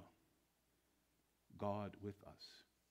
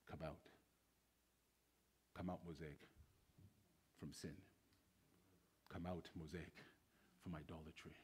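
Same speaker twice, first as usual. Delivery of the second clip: soft calling; 4 semitones lower, 9 dB quieter than usual. Acted.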